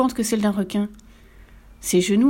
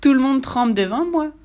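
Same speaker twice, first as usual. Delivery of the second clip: higher, louder boast; triumphant; 6 semitones higher, 5 dB louder than usual. A narrator's reading. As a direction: crow in triumph. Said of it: "triomphe la souris".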